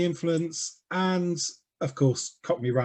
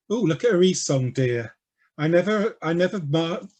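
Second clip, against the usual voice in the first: too quick; 3 semitones higher than usual. Shown as a demonstration. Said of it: "Sorry, I'm speaking too quickly".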